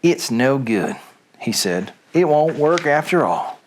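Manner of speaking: put-on story read aloud in a light Southern accent. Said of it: "Reading Things with a Southern Accent".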